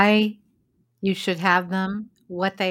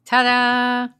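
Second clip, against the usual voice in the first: ta-da fanfare; 5 semitones higher, 7 dB louder than usual. Pretend. Mock fanfare after "a metric.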